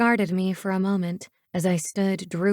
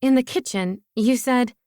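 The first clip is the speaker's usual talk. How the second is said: higher, louder objection; insist, voice raised; urgent lifted protest; 5 semitones higher, 3 dB louder than usual. A narrator's reading. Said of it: "I protested".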